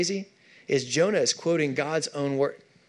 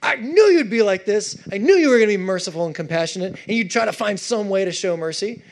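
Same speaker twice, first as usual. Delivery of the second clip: mock accusation; 2 semitones higher than usual. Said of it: "He's thrown".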